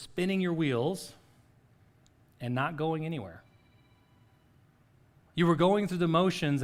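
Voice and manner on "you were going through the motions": higher and louder, pressing the point home; a preacher's rising emphasis; emphatic preaching. Real, not acted. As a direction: lift it and hit it hard.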